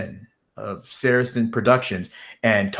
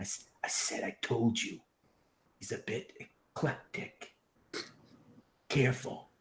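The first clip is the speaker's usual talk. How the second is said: forced, strained, pressing whisper very close up; 15 dB quieter than usual. A character pulls a man close and speaks into his ear; forced whisper. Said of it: "whisper, like a very fo- uh, forced whisper".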